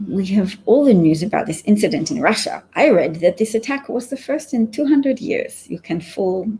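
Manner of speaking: hammed-up mock Russian accent, only half held; terrible Russian accent. Reading a viewer's comment aloud in a bad Russian accent. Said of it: "Sorry, my Russian accent's terrible".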